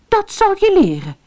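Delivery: high, sharp scolding shout; paying him back; angry cry. A narrator's reading. Fatima scolds her greedy husband, angry. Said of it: "riep ze".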